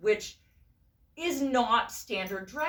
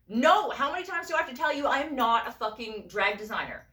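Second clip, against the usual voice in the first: higher, emphatic retold outburst; exasperated protest; 4 semitones higher, 4 dB louder than usual. Telling the friend off on the third ask, exasperated. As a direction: push back, thoroughly fed up. Nagged a third time, refusing.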